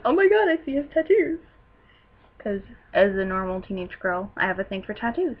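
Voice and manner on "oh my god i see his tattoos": high-pitched excited gushing; retold giddy outburst; fangirl freak-out. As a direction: squeal it like a thrilled fan. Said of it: "freaking out, like".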